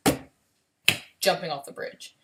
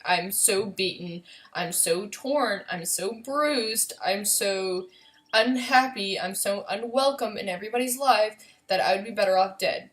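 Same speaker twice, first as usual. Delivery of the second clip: anguished litany, mounting steadily; retold despair. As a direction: draw out each hurt, climbing in intensity. Retelling her despair, mounting list of hurts.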